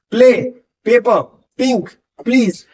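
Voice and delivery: "प्ले, पेपर, पिंक, प्लीज" each with a clear popped P; teacher reading out P words carefully; P word examples. Shown as a demonstration. Teacher giving students P words with popped lips. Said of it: "जैसे आप बोलते हैं पेन".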